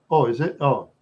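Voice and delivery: ordinary talk, nothing marked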